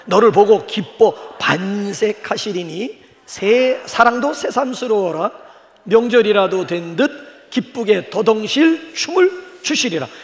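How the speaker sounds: slow, solemn reading of scripture. Acted. 회중에게 스바냐 말씀을 천천히 낭독하는 목사. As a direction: read the verse slowly and reverently. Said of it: "공동 번역을 한번 보세요".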